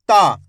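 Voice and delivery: ता with a long drawn आ; stretched ता. Shown as a demonstration. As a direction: hold the आ in ता. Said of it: "ता का उच्चारण खींच को हो रहा". ("ता" को खींचकर लंबा बोलें)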